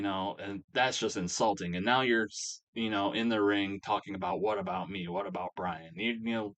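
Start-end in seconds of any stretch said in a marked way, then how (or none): 4.4-6.6 much higher, whiny mimicry of Brian; mock him in a high, babyish whine. Raven mimicking Brian's whining to taunt him, high mocking whine.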